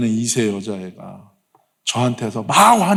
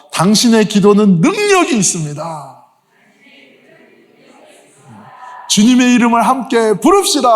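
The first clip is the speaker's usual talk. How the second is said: higher and louder rousing exhortation; preaching at full force; 9 semitones higher, 4 dB louder than usual. Acted. Pastor rallies the congregation to worship together, preaching. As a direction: lift the whole room with each line.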